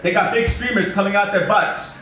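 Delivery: high, loud big simple man; simple Eddie. Acted. Narrator voicing simple Eddie to the kids, high and loud. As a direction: boom it out like an eager childlike giant. Eddie explaining his party birds.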